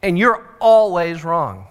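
slow, emphatic bossy declaration; mock dictator stating the rules. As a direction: lay it down slowly like a tyrant. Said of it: "The, uh, dictator attitude is".

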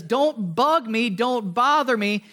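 slow, measured mock irritation; irritated. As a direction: wave them off with slow, weighted words. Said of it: "And he's irritated".

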